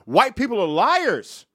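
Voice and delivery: imitating a booming Patrice, slow and drawn out; hammed-up slow proclamation; mock holler of a big man; Patrice yelling. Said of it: "He said that as loud as he could".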